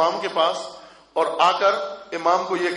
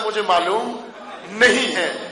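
mildly exasperated, pausing before the last words; incredulous quoting. Retold or imitated. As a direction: repeat the answer as a baffled reporter would. رپورٹر جھنجھلا کر جواب دہراتا ہے. (حیرت بھرے شکایتی لہجے میں)

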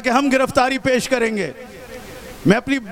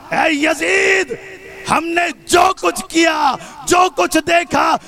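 declaimed retort, shouted with conviction; Zainab, bold defiance; 4 semitones higher than usual. Retold or imitated. Answering Yazid in the tone of Ali, defiant declamation. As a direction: fling each clause out proudly, stressing its opening. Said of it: "علی کے لہجے میں کہا، عباس کے لہجے میں کہا".

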